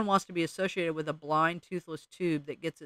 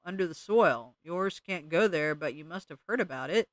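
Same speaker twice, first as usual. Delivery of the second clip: slow, dragging mole drawl, words stuck in soil. Acted. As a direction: let each word crawl out of the dirt. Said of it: "said the mole".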